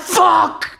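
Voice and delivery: high-pitched imitated shock; mock startled cry. Storyteller re-enacting man caught on the toilet, startled cry. Retold shock, repeated for laughs.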